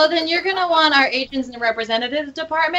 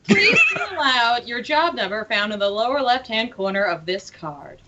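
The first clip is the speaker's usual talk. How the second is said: automated voice; 3 semitones lower, 3 dB quieter than usual. Acted. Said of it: "automated voice".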